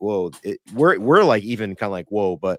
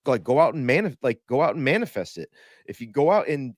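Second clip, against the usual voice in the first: retold screaming; 5 semitones higher than usual. Retelling early posts urging people on X, mock screaming. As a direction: urge them on in a raised, pitched-up voice. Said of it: "I was screaming like".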